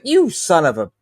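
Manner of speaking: mildly angry retold curse; retold anger. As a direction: curse under restrained anger. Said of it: "I was so angry".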